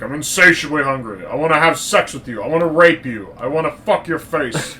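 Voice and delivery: mock-ravenous Connery impression, swooping pitch. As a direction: play a comically lustful character, pushing each demand. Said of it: "Connery's evolved in this series for us".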